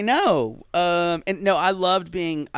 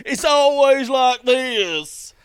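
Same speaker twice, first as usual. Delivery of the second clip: higher dopey country drawl, slow; straight man impression; 9 semitones higher, 5 dB louder, much slower than usual. Mocking straight men, slow dopey country voice. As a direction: do a dumb straight guy. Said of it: "when I just imitate straight men".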